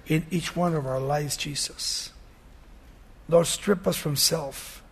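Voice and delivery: gentle pastoral prayer; closing prayer. Real, not acted.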